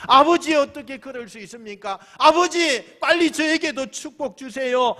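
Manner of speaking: loud, high-pitched begging to father; hammed-up tearful outcry; acted wailing plea. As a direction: plead as if bawling, without real sobs. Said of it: "대성통곡을 하면서".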